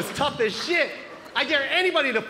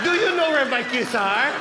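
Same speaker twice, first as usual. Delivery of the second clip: put-on slow, loud accented parroting; mom mocking the question; 5 dB louder than usual. Mom repeating her son's stupid question, slow mocking accent. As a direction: throw the question back scornfully, drawn out. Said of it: "Isn't that a stupid question?".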